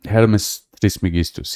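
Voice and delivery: put-on tentative Italian accent on "Hermes Trismegistus"; a hint of Italian pronunciation; attempted Italian accent. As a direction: try the name in a light Italian accent. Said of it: "He had an Italian accent".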